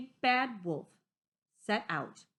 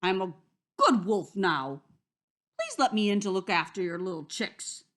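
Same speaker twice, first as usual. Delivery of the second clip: sweet wolf; 7 dB louder than usual. Acted. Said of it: "said the Big Bad Wolf sweetly".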